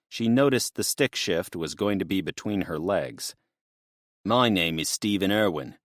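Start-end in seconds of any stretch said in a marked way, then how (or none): 4.2-5.8 lightly voiced exaggerated backwoods Australian accent; a hint of a drawling backwoods Australian accent. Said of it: "drawled in his exaggerated backwoods accent".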